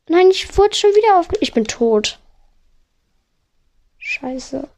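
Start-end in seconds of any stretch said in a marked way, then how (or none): 4.0-4.7 muttered curse. Real, not acted. Dies again in the game.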